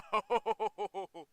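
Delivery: high, loud string of laughs; rolling, incredulous laughter; helpless laugh. Real, not acted. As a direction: burst out laughing in disbelief. Laughs at the revealed spoiler.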